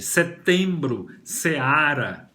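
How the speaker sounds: setembro, seara as separate model words; deliberate articulation. Shown as a demonstration. Teacher linking setembro, seara to seven, deliberately articulated. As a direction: sound out setembro, seara syllable by syllable. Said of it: "Depois vamos ao sete".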